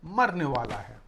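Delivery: shouting. Acted. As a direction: yell for the aunt to hurry. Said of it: "चिल्लाकर बोलता है".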